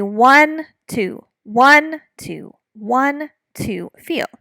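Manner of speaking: counting the beat, fading to a whisper; counting in two. Shown as a demonstration. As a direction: count one two, leaning on one. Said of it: "duple or quadruple meter".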